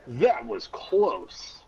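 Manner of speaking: high, slow relieved remark; slow, high, laughing relief. Acted. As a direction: let the relief out slowly. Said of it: "Then I said".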